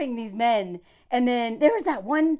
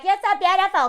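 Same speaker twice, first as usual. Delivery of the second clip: mocking flattery; 6 semitones higher, 3 dB louder than usual. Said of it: "But they're like".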